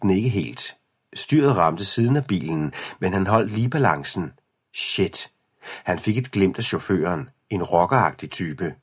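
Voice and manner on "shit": breathless whispered shit; whispered curse. Acted. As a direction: hiss it under your breath after the near crash. Near miss with the car. (hvisket bandeord)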